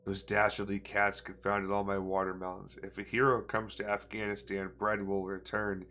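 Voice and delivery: lightly hammed-up read-aloud; reading a nonsense story to viewers, mildly theatrical; storybook reading. Gamer reading a found book aloud, mild storyteller voice.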